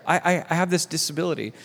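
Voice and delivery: "I, I, I" repeated in a light stammer; lightly imitated stutter on "I, I, I"; acted stutter. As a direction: stumble quickly on the first "I". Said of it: "No, but I stutter".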